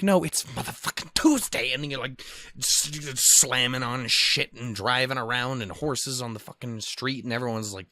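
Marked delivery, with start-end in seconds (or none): 0.0-1.7 higher, pumped-up party voice; mock the party crowd, pumped; hyped partier.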